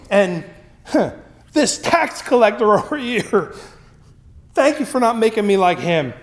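high, proud Pharisee looking down on others; arrogant prayer. Retold or imitated. The Pharisee sneers at the tax collector, arrogant. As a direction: sneer at the sinners while praying. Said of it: "what an arrogant statement".

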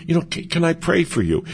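gently. Shown as a demonstration. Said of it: "you can just gently say".

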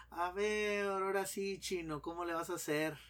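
burla ligera, algo más aguda; burlándose. Acted. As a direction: provoca al chino en tono de mofa. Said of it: "burlándose nomás". (el mexicano se burla del chino, con mofa ligera)

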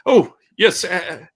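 high, loud startled barmaid voice; a flustered cook caught off guard, pitched high and loud; startled Elizabeth greets a customer, high and loud. Acted. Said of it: "She's like".

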